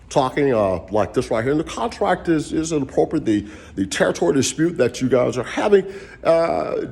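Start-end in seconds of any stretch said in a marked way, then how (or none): 1.5-6.9 a touch of a formal businessman voice, slightly raised; corporate talk. Retold or imitated. Explaining the contract to franchisees in a mildly formal corporate voice. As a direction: sound proper and corporate. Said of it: "I was been talking like that".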